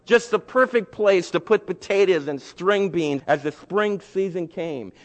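usual speaking voice

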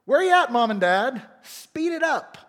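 put-on loud, high, demanding child voice; bratty child yelling at Mom and Dad; entitled kid. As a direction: boss the parents around like a spoiled kid. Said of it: "the sense of entitlement and presumption".

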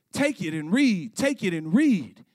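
lightly imitated sing-song chant; a hint of a child's chanted refrain. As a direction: swoop up and down on each repeated phrase. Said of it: "sing-song voice of a child".

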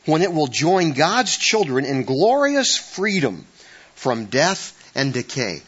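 slow, lifted Bible reading; scripture reading. Acted. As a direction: read it out like scripture. Reads Romans aloud.

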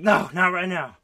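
high laughing mock girl voice brushing him off; giggly put-on girl turning him down; mock Jesse. Friend retelling the scene, playing Jesse high and giggly. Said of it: "And she's like".

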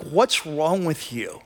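slow, understated exasperation; irritated. Acted. Irritated disciples to the teacher who slept, irritated. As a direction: ask it with mild, drawn-out irritation. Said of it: "they're just irritated".

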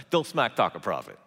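ordinary talk

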